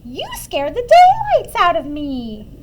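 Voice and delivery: put-on high, loud, drawn-out old-lady complaint; aghast old lady crying out slowly; startled cry. A narrator's reading. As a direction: stretch it out and leap up on DAYLIGHTS. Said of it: "cried the tiny old lady".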